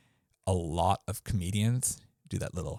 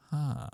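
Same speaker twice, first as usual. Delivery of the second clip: mock interrupting huh; 7 semitones higher than usual. Shown as a demonstration. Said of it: "nonverbal cues like the fish".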